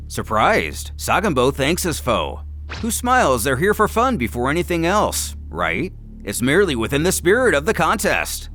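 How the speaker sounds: plain reading voice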